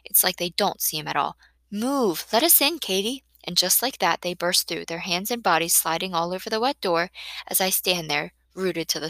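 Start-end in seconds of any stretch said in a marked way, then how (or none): 1.7-3.2 impatient call. Acted. Impatient girls pushing at the door.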